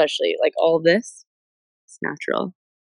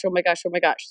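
usual speaking voice

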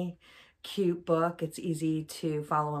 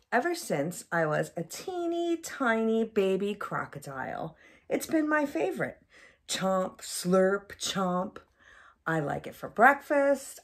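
lightly voiced happy crocodile, savoring each bite; a hint of a greedy little crocodile. Mom reading to a child as a lightly voiced crocodile.

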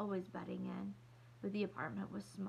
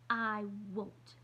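put-on louder, indignant child's protest; sputtering; 4 dB louder than usual. Little girl refusing new shoes, sputtering and louder. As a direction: spit the refusal out. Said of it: "Kirsty sputtered".

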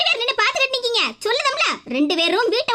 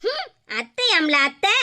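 1 mocking sneer; 5 semitones lower, slower than usual. Mother mocks the word aunt.

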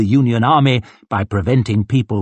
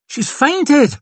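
high-pitched urgent call. A narrator's reading. Someone in the crowd reports a faint, high call. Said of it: "someone called".

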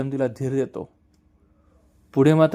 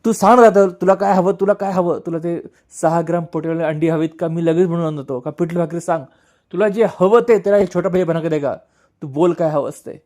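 higher and louder, begging a brother to wake up; desperate pleading; 4 semitones higher, 4 dB louder than usual. Retold or imitated. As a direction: plead with a raised, straining voice.

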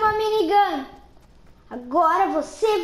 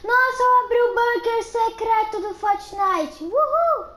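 excited discovery; 5 semitones higher, slower than usual. Pretend. Kid finds secret bunker.

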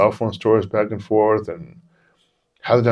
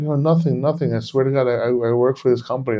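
higher, hurried-sounding pleading; retold innocent protest; 5 semitones higher than usual. Manager explaining himself to police, higher-pitched protest.

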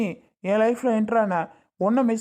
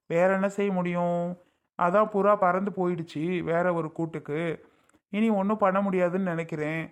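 a spurned husband mourning the wife he lost; bitter lament; 4 semitones lower than usual. Acted. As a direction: sigh it out as if love were lost for good. Rejected husband laments losing wife.

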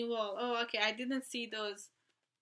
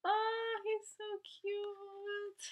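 gushing; 9 semitones higher, 4 dB quieter, slower than usual. Real, not acted. Fangirling over photo.

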